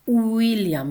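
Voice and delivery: William begun with a vowel u, "U-illiam"; Russian u rendering. Shown as a demonstration. Lecturer showing the transcription, initial u. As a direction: say "William" with a full oo at the start. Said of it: "with the Russian letter".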